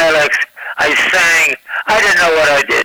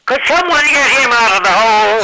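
southern pitchman; 3 semitones higher than usual. Retold or imitated. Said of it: "in his dialect".

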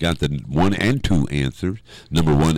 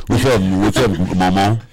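mock city slicker. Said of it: "talking like city slickers".

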